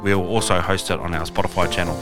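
upbeat podcast promo read; announcer voice. Acted. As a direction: read it like a radio host plugging the show. Host reads podcast promo announcement.

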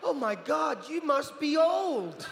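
high, slow blurt breaking into laughter; laughing blurt. Retold or imitated. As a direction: giggle out the rude remark. Boy blurts rude reply.

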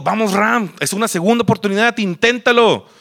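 high, eager inner cheerleading; urgent self-pep-talk. Retold or imitated. Telling himself to take a second chance, urgent self-pep-talk. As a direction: urge yourself on insistently.

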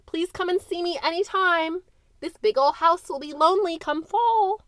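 put-on high, sweet calling-after voice of an older woman; a lightly voiced older lady calling out; kindly old lady. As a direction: call after her like a fond old employer. Landlady calls after departing girl.

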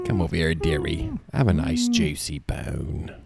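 lightly acted coaxing, slowing on the bone; Pirates ride dog line. Co-host doing the dog clip on request, lightly acted coaxing. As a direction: coax the dog, drawing out the last words. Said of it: "Can you do the dog?".

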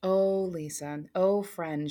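slow, careful, gentle words to a friend; lightly voiced colleague speaking carefully; low and careful. Colleague consoling her crying friend, a hint of slow care. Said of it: "she said it low and carefully".

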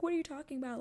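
high, incredulous retold question; acted bafflement. Acting out her reply to his fussing, high baffled retort. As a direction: imitate her confusion, pitched well up.

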